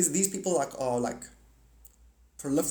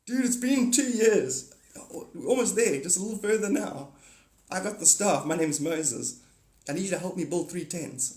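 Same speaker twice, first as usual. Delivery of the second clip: exasperated Moses; 4 semitones higher than usual. Retold or imitated. Moses complaining to his follower, hammed-up and weary. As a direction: drag it out like a worn-out prophet.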